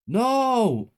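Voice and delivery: high, loud desperate scream. A narrator's reading. Child to the mother, desperate scream. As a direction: scream in horror. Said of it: "I screamed".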